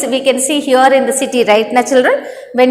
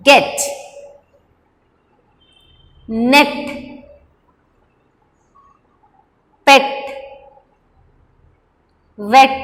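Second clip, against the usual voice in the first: isolated words for the class to echo; word-by-word model reading. Shown as a demonstration. Teacher has children read after her, word-by-word model reading. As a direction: say each word alone, long pause after it. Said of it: "read after me".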